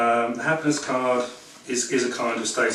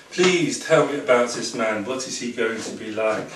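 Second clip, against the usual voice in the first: put-on French accent. Tarot reader imitating a French client in Camden, mild French accent. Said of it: "in my best French accent".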